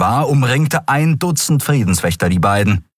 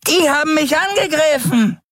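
bizarre voice. Acted. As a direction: announce it like a creaky bony creature. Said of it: "seine bizarre Stimme".

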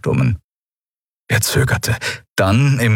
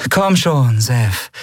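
tag gentle; 5 semitones higher, much slower than usual. A narrator's reading. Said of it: "sagte sie sanft".

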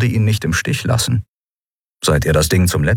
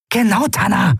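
Genau said high and punchy with a falling end; emphatic agreement; 14 semitones higher than usual. A narrator's reading. Amalin backing Lun, high emphatic Genau. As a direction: snap out Genau as firm backing. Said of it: "bekräftigte Amalin".

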